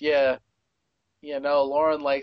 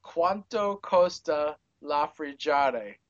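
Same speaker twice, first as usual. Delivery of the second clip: Italian; slower than usual. Retold or imitated. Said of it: "to speak, uh, Italian to her".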